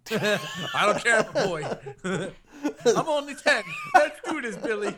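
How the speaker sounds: put-on very high, laughing kid voice; squeaky child voice. Playing a giggly child, squeaky and high.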